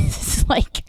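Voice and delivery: laughing through the words. Real, not acted. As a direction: break into a laugh. Laughing at Trump.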